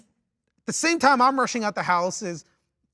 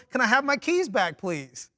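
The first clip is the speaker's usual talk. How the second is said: mock methodical request; 3 semitones higher than usual. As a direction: ask politely, point by point, dropping off at the end. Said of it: "It was just a very methodical".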